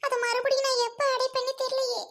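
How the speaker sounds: anxious, weepy explanation; tearful worry. Acted. Worried mother unsure she can repay the loan, tearful. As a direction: explain it as if still crying. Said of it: "இதுக்கு ஏன் அழுகுறீங்க".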